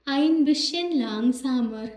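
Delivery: drawn-out classroom German; slow teaching demo. Shown as a demonstration. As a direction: spell the phrase out slowly for learners. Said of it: "teacher demonstrating German phrase".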